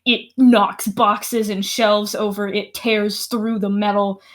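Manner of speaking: relentless build as the monster charges; dramatic scene setting. A narrator's reading. Game master sets the scene.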